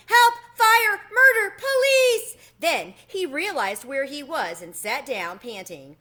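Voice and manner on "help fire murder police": panicked yelling, much higher and louder; frantic high yells of alarm; shouting. Acted. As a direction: scream for help in a fright. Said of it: "ran around the cage shouting".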